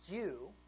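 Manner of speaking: YOU set apart and leaned on; a weighty, pointed "You"; emphatic YOU. Acted. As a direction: land firmly on "You", then stop. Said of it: "it's emphatic".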